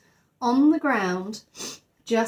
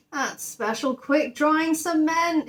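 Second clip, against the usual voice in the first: raised, slow, dismayed wail; a foreman's dismayed wail; 7 semitones higher, slower than usual. A narrator's reading. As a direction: lament the ruined cement. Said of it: "he wailed".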